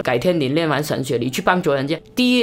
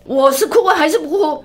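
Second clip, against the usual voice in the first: laughing self-question; 10 semitones higher than usual. Retold or imitated. Recalls her own dilemma, laughing.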